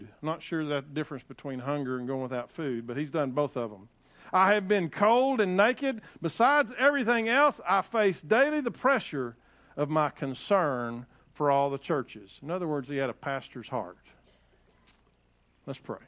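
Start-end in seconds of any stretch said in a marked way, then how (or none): 4.3-12.4 emphatic pulpit reading, settling at the end; scripture reading. Acted. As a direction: proclaim it, then ease down on the last phrase. Reads scripture aloud to congregation.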